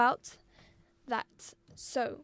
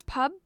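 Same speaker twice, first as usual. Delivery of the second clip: publicity broken after pub, then LI stressed; publicity as pub, LI-city; stress on second syllable; much faster than usual. Shown as a demonstration. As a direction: pause before a weighty LI in publicity. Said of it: "That is how we pronounce the word".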